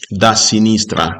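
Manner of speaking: said through a yawn. Real, not acted. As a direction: talk while yawning. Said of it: "I'm yawning".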